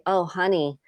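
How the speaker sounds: mildly soothing a hurt daughter; tender apology. Retold or imitated. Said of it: "rather than say".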